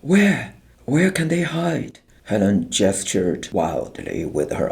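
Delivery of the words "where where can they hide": high, pleading disbelief; exasperated protest. A narrator's reading. Teacher Helen challenges the officer, exasperated and pleading. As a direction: throw the question back at him.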